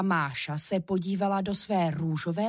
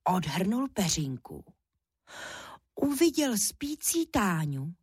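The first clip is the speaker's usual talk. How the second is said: ordinary delivery, nothing marked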